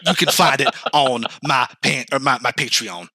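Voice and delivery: a hint of a hushed sports pundit; Stephen A. Smith impression. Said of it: "the A is for A S M R".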